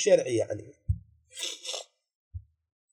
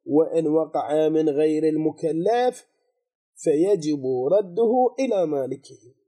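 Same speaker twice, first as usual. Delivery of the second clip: slow quoted reading; slower than usual. Shown as a demonstration. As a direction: slowly recite the text, word by word. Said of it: "وين الجواب؟". (قراءة بطيئة للنص)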